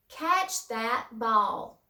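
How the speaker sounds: very slow, drawn-out command; deliberate classroom dictation of an order; slow example command. Shown as a demonstration. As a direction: space out each word of the command.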